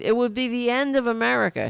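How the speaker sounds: a mocking take on a blowhard's doom warning. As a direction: toss off the doom claim fast like a blowhard. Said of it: "he said".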